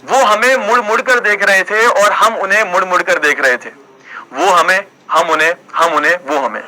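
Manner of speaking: playful poetry-recital delivery; mock shayari recital. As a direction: recite a comic couplet, repeating each half for suspense. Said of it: "तो उसी पे एक शायरी याद आ गई मुझे".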